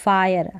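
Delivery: "फायर" as fa-yer, falling; pronunciation demo. Shown as a demonstration. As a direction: model the word "फायर" alone. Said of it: "इसको फायर पढ़ेंगे". (फायर का स्पष्ट उच्चारण)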